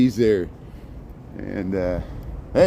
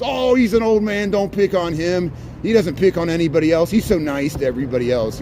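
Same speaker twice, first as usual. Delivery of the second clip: higher, whiny protesting voice; mock defensive pleading; 5 semitones higher, 3 dB louder than usual. Vlogger mimicking Trump supporters defending him, mock whiny plea. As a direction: plead on behalf of the old man, hammed up.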